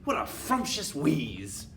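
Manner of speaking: very high, loud shrill cry; squealing witch chorus. Acted. Witches answering their leader, very high and loud. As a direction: squeal eager agreement.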